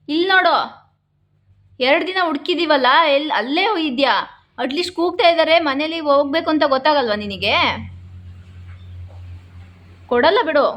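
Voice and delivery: insistent, exasperated telling-off; reproachful scolding. Real, not acted. Owner who searched two days for the dog, scolding. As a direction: make the pet look and listen.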